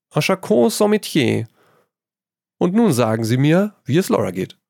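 light, amused artist lecturing his friend; Trevor, breezy painter. A narrator's reading. Painter Trevor teasing his friend Hugo, airy and high.

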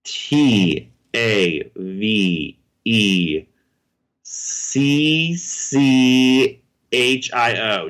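letters spelled very slowly; spelling it out. Shown as a demonstration. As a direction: spell each letter out, slow and deliberate. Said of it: "please spell for me".

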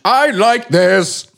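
slow, drawn-out flat-toned I like this with no direction; odd blank delivery. Real, not acted. Host blurts a line to a co-host, slow and blank. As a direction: say I like this as if your mind just went blank. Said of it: "I don't know why I said it like that".

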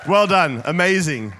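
excited praise. Real, not acted. Praising the loud crowd.

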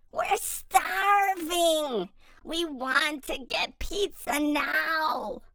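drawn-out hungry yell; starving shout. Acted. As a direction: holler down from the tree house. Hungry kids shout from tree house.

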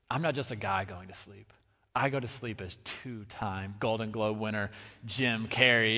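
low, hushed mock self-importance; Jim Carrey. Comedian confiding his grand bedtime title to the audience, mock-solemn. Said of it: "he's like".

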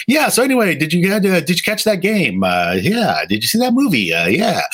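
high, chirpy forced small talk; fake cheerful small talk. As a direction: butt into the chat, overly bright. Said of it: "and I was like".

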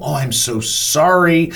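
mock-sweet, slow apology; suddenly nicest woman. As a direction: gush an apology, drawing it out. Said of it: "this woman is the nicest woman".

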